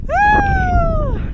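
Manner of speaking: very high, loud cheer; triumphant whoop. Real, not acted. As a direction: let out a victory woo. Cheering reaching the top.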